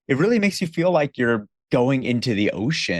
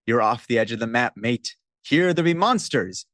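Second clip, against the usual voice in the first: pirate narrator. Acted. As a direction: growl it like a pirate ride host. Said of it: "That's the intro narration to the Pirates of the Caribbean ride".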